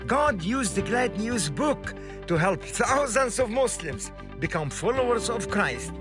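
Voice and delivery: ordinary talk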